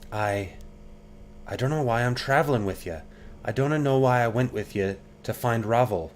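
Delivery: tiefling rogue, gruff Scottish lilt, defensive; brusque Scots girl, prickly; Anna, Scottish lilt. Acted. Voices Anna in the game.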